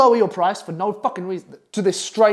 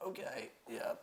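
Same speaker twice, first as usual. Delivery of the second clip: whispered yes; 22 dB quieter, slower than usual. Retold or imitated. Retelling accepting a low price.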